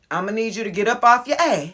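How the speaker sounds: quick, sassy demand; a playful, sassy push; sassy command. Shown as a demonstration. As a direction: tell them to get moving with attitude. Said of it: "You see how I did it?".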